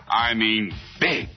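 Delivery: "big" set apart and emphasized; stress on BIG. Acted. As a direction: lean hard on "big" to mean size. Contrasts big with popular.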